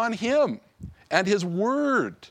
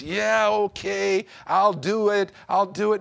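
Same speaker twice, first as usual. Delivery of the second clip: grudging acceptance. Retold or imitated. Preacher mimicking a lukewarm convert, mildly grudging. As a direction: sound half-hearted, like giving in. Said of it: "a grudging acceptance".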